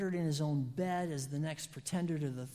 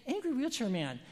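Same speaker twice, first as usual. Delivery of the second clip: exasperated call, higher and louder; 10 semitones higher, 4 dB louder than usual. Retold or imitated. Preacher retelling yelling at a neighbor who ignores red lights, exasperated. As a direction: yell across the street at him. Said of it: "and I say".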